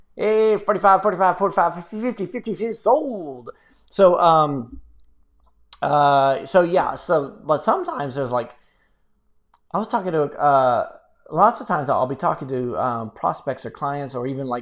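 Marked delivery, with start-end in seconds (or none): 0.2-3.5 mock auctioneer patter, higher and louder. Joking about becoming an auctioneer after talking fast: mock auctioneer call. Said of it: "I might get a job as a, um, as an auctioneer".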